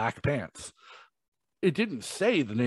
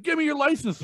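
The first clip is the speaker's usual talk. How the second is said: imitating the cop. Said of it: "he's like".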